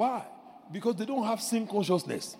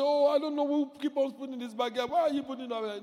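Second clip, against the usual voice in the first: mild timid complaint; 5 semitones higher, faster than usual. Pretend. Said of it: "You don't say".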